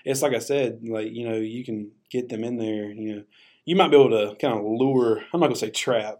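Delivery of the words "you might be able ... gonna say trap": cracking voice. Real, not acted. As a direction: voice breaking mid-sentence. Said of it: "But my voice keeps cracking".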